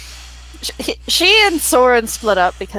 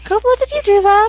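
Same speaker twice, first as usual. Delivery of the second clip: questioning the cat; 10 semitones higher than usual. Acted. Druid asking cat, higher voice.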